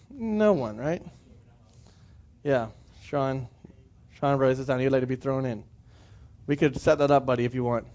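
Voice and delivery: low, soft aside to a listener; quiet aside. Real, not acted. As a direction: drop the voice right down for an offhand joke. Joking aside to someone in the room.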